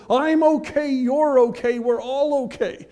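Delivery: high, loud sing-song; mock the easygoing crowd, chirpy; mock cheery. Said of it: "We want to invite everybody in and say".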